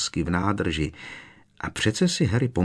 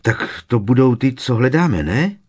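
higher, louder, eager question; excited exclamation; 5 semitones higher, 6 dB louder than usual. A narrator's reading. Ron thinks they found the right door, excited. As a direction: blurt it out in excitement. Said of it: "vyjekl vzrušeně Ron".

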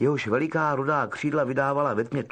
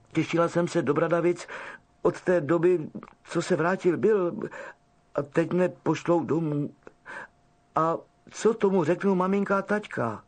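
tearful; 4 semitones higher than usual. Acted. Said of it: "rozplakala se Ginny".

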